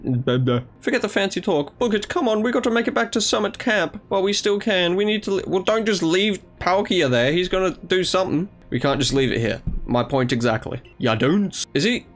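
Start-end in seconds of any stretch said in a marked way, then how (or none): 0.8-8.5 higher, brusque and impatient; lightly voiced blunt leader. Clan leader urging the group to leave, impatiently. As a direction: cut through the formality. Voicing same character, Irish-ish.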